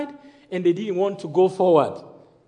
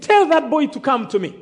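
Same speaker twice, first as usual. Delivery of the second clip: acted summons in a raised voice; calling out; 3 semitones higher than usual. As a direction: call across to summon someone. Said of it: "He called and he said".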